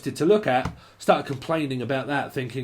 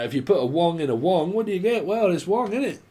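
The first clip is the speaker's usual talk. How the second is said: mock Chinese accent; 4 semitones higher than usual. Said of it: "y'all must be Chinese".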